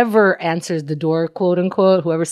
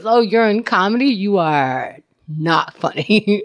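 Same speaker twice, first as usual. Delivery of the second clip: mock deadpan verdict; slower than usual. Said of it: "no one's gonna".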